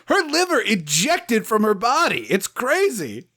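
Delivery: indiscreet doctor. Acted. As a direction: announce gory details like juicy news. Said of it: "the doctor wasn't quiet".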